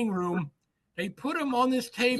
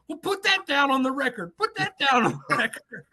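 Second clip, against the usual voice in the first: mock yell, pitched up; half-raised voice imitating a desperate shout; retold scream; 4 semitones higher than usual. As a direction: insist like a mildly hammed-up screamer. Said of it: "Larry Little screams to him".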